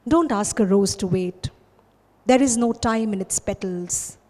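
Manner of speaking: measured poem reading with pauses between images; poetry recitation. Acted. Recites own poem, Timely.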